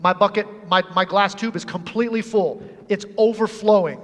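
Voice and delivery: mildly acted irritated complaint; put-upon grumble, lightly dramatized. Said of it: "oh, she's irritated".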